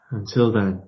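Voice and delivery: understated tender goodbye. Acted. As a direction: let the farewell trail off tenderly. Echoed farewell, softer.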